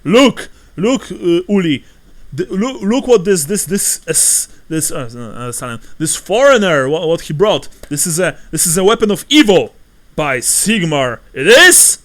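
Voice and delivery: loud, high stammering alarm; flustered innkeeper. Acted. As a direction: stumble over words in a panic. Flustered innkeeper accuses stranger.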